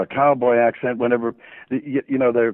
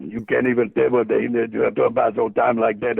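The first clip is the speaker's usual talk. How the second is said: light Cajun accent impression; 2 semitones lower than usual. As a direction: mumble it like a Cajun deckhand. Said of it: "they got that accent like that".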